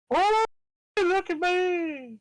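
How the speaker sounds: high, slow, theatrical prosecutor voice. Acted. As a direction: stretch it out like a showy prosecutor. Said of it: "test out my judge and prosecutor voice".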